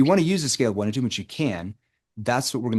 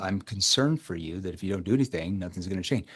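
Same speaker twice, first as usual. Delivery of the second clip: softer, concerned and sincere; serious tone; 3 semitones lower, 4 dB quieter than usual. Shown as a demonstration. Coach to prospect, quietly concerned and sincere. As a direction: sound genuinely concerned for them. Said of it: "It's more of a serious tone".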